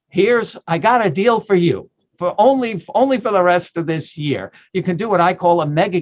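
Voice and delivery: light pitchman sales voice; a hint of late-night TV ad; infomercial pitch. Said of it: "now I sound like an infomercial".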